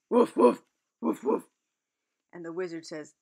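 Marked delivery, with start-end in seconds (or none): 0.1-1.5 high, loud woofs; barking like a dog. Acted. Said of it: "a girl that barked".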